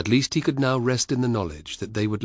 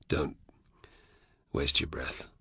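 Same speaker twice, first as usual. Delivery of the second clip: weary; 5 semitones lower, 6 dB quieter than usual. A narrator's reading. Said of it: "said Spartacus wearily".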